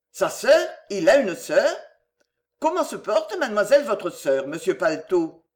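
mock-formal teasing of a dog; playful teasing. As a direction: tease with mock politeness. Maman taquine le chien. (taquinerie faussement polie)

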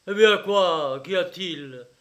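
impatient demand. A narrator's reading. Father unsettled by his calm son, impatient demand. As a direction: fire the questions at him.

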